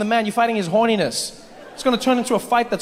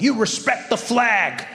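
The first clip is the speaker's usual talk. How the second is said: preachy patriot; 3 semitones higher, much slower than usual. Retold or imitated. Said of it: "people who are like".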